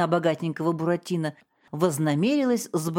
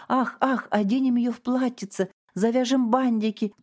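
higher, sing-song mockery of her sighs; mocking mimicry; 6 semitones higher than usual. A narrator's reading. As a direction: lightly mimic a whining wife, higher. Father mocks mother's laments.

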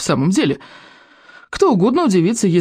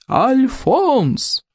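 yelling; 8 semitones higher than usual. A narrator's reading. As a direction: yell his name out. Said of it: "заорал главный берсерк".

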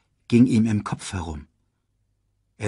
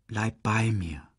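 tender plea; 5 dB quieter, slower than usual. Acted. Simba moves close to Nala.

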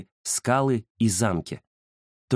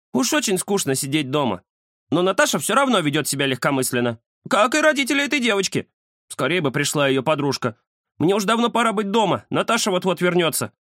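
higher cat voice, a bit restless; fretful tomcat; 8 semitones higher than usual. A narrator's reading. The cat frets to Ramzes about getting home, higher. Kuzya, sad but chattering.

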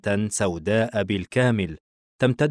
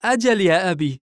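put-on high, louder boy's reply; puzzled son; 10 semitones higher, 6 dB louder than usual. A narrator's reading. Son puzzled by his mother, answering his father in surprise. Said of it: "بورسن باستغراب".

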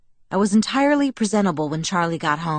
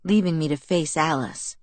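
ordinary delivery

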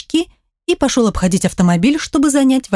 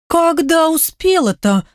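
изумление; 8 semitones higher, slower than usual. Acted. Девчонки удивлены у окна.

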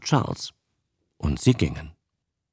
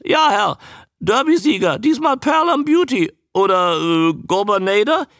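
very high, loud squawky creature; loud, high, quick croak; croaking newt; 12 semitones higher, 5 dB louder than usual. A narrator's reading. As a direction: introduce yourself as an eager talking newt. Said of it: "krächzte er".

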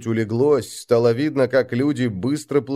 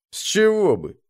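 high, puzzled question; surprised; 9 semitones higher than usual. A narrator's reading. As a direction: ask it in honest surprise. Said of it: "удивился Дарри".

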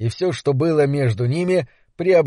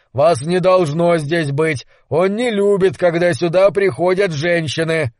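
menacing; 2 semitones higher than usual. Acted. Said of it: "угрожающим тоном".

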